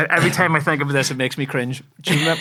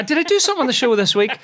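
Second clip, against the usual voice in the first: puzzled self-question; 11 semitones higher, 5 dB louder, faster than usual. Retold or imitated. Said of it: "Somebody must have said, I".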